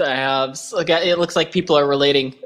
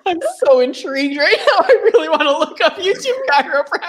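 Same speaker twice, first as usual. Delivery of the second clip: high, laughing curiosity; eager and giggly; curious; 13 semitones higher than usual. Real, not acted.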